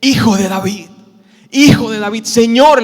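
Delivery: loud, insistent cry; acted desperate call to the Lord; shouting harder. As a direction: shout out for attention, building in force. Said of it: "ellos gritaban con más fuerza".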